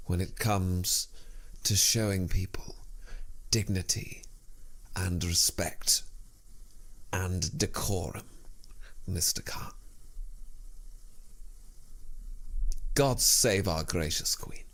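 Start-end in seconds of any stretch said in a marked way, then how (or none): 1.6-8.3 hushed, awed whisper about the Queen; reverent whisper. Acted. Whispered reverent patriotic build. 9.1-14.6 hushed, devout whisper of the anthem line; reverent whisper. Acted.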